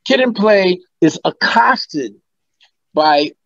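slow, deliberate read-out; measured recital with pauses; reading out script. Retold or imitated. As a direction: spell it out slowly, phrase by phrase. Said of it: "he said, script descriptions".

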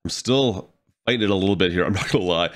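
nasal voice from a cold; stuffy, congested nose; blocked nose. Real, not acted. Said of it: "the nasally voice".

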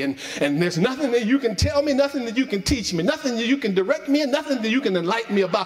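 fast, rising mock of a know-it-all; imitating a smug churchgoer, quickening; arrogant know-it-all voice. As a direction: sneer it out like someone who knows it all. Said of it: "give off this thing as if they already have arrived".

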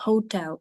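"hotel" with the initial h pronounced; teacher demonstrating the h in "hotel"; sounded H. Shown as a demonstration. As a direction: let the "h" of "hotel" be heard. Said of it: "ха це буде читатися".

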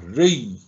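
ري as one syllable closed on the y; shown pronunciation. Shown as a demonstration. Teacher showing the silent-vowel ya, ري sounded as one syllable. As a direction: say ري alone, the y joined to the r. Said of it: "قلتها هكذا".

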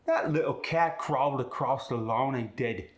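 cat and lawn with a punched-hard AH, Cockney style; Cockney, hit the AH harder; Cockney accent. Shown as a demonstration. Student demos the Cockney AH on the cat line. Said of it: "punch that ah even harder".

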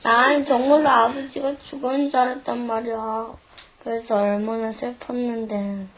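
low, softened voice; tender confiding. Acted. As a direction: confide it softly to your father. Child confides relief to father.

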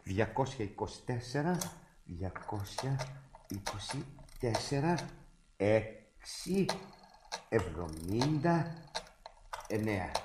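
slow, spaced-out number by number; reading out digits. Acted. Brother reads the doctor's number while dialling, slow and measured. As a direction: read it slowly while dialling, pausing between figures.

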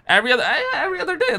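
laughing. Real, not acted. Joking about crack, laughs.

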